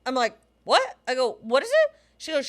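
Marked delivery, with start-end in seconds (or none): 0.6-1.9 confused. Retold or imitated. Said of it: "you can imagine my reaction".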